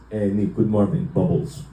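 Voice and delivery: lightly voiced dad, tossing out a random word; offhand dad greeting, dropping low on "bubbles"; imitated dad. Dad greets son at the restaurant, offhand. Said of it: "he would just be like this".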